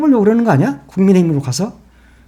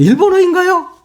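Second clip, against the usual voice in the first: high, snide, needling, sneering mock tone; 9 semitones higher than usual. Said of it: "깐죽대기는".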